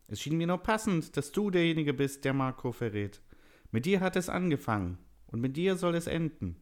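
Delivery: very high-pitched elf villain; scheming elf. A narrator's reading. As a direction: explain the betrayal as a high-voiced elf.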